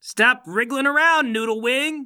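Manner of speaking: high, loud, slow order; stern shout. Acted. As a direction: command a struggling suspect you are pinning down. Hero restraining a struggling suspect.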